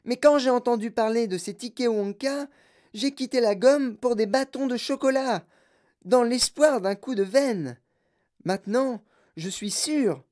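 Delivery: put-on high, loud spoiled girl shouting; bratty girl voice. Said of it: "Elle parlait très vite et très fort".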